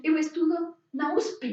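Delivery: lightly voiced Brazilian Portuguese, usp as one word. Teacher quoting a Brazilian student for the class, in Brazilian Portuguese. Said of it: "Ellos dicen".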